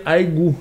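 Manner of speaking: "aigu" ending in an "oo" sound; cuter variant. Shown as a demonstration. Teacher offers student a cuter form, "aigu" ending in "oo". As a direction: Korean "aigu", the cute form with final "goo". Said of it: "pour sonner un peu plus mignon".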